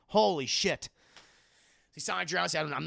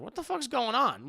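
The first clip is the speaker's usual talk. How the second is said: retold confusion; 8 semitones higher than usual. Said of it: "I was fucking confused".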